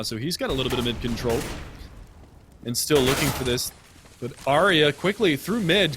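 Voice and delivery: live play-by-play calling; esports caster. Real, not acted. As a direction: narrate the round like a caster.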